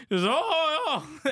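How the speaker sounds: high hollered mimicry of a loud friend; mock loudness. Mocking a friend for being loud, high holler. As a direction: holler it like a noisy pal. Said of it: "impression of you being loud".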